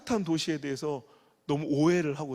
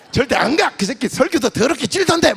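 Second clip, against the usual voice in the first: a loud, higher, blunt no; blunt refusal; 7 semitones higher, 12 dB louder than usual. Retold or imitated. Churchgoer bluntly refusing a revival sermon, loud and direct. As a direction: flatly refuse the pastor to his face. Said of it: "막 이렇게 얘기 안 하고".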